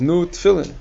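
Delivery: put-on a touch of an eager old-world man; urging foreign man. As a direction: push the offer on him. Man urging him to lay tefillin.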